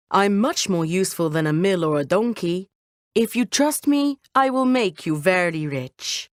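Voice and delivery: lightly voiced sly cat, persuasive; clever cat. Talking cat convincing his master, sly and persuasive. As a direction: coax your master with confidence.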